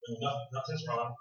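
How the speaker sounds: soft, low, sulky denial; wife hiding her hurt from husband, soft and low. Retold or imitated. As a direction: deny it while clearly upset.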